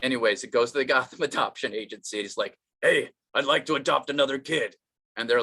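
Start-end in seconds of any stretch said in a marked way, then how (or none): 2.8-4.7 Batman character. Acted. Batman asking the adoption agency for a kid, in character. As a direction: deliver it as a voiced comic Batman. Batman's line, redone for the joke.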